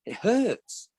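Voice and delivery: lightly voiced Hacker; short squeaky demo. Shown as a demonstration. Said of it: "it was hurt".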